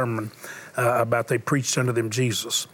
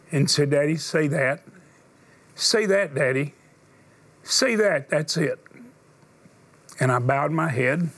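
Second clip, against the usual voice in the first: sermon storytelling. Acted. Preacher tells a dying boy's story to the congregation. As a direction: let each pause land, preacher telling a story.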